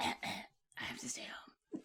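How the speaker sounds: very hushed, slow, put-on sick whisper. Speaker shows how they would fake a sick day, fake sick voice. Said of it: "That was a good sick voice".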